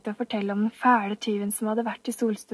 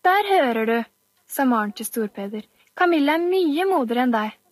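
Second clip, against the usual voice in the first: triumphant taunt; 2 semitones higher than usual. Acted. Maren triumphing over bully.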